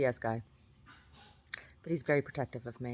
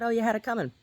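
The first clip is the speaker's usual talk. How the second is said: higher, mocking dad impression; 10 semitones higher, 4 dB louder, faster than usual. Imitating her dad to his kids, mock high voice. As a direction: quote the dad smugly, pitched up. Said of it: "My dad said".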